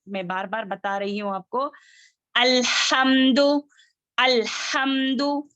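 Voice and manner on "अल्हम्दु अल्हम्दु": अल्हम्दु with a firm, unbounced L; still laam. Shown as a demonstration. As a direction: hold the L of अल्हम्दु still before the H. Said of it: "लाम को हिलाएंगे नहीं".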